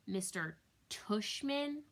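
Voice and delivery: slow, questioning disbelief; drawn-out doubtful question; puzzled repeat. Acted. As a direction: say the odd name slowly, puzzled. Child baffled by silly name.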